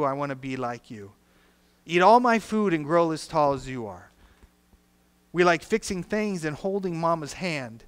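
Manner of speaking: dramatic lyric reading. Acted. Pastor reading song lyrics to the fathers, dramatic and loud. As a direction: tell the song's story to the congregation with feeling.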